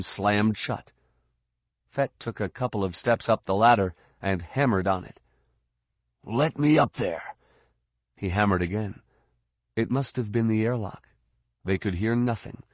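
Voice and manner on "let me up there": raised, higher-pitched command; urgent demand. Acted. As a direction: demand to be let through. Fett hammers on shut hatch, calling.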